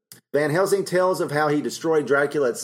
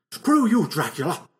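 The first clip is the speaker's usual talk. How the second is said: playful jeer, higher at the start; mock defiant jeer; 5 semitones higher than usual. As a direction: toss off a joking insult in passing. Jokes flipping off the portrait.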